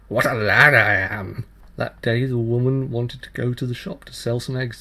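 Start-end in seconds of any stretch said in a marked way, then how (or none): 0.1-1.5 slow, loud, crowing boast; mocking fairy child. Fairy child taunts the tailor with a slow crowing boast. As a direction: crow it like a cheeky changeling. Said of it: "winking and slicking and shaking his head and saying".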